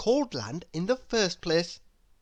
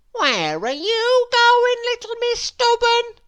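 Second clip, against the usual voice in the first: nosy Mister Nosey; 8 dB louder than usual. A narrator's reading. Mister Nosey pries at the bus stop, high and nosy. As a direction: lean in, pry with a high sing-song. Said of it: "he couldn't help asking".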